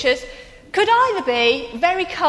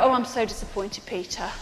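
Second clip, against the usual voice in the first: disappointed; 3 semitones lower, 6 dB quieter, faster than usual. Pretend. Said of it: "turn around and go".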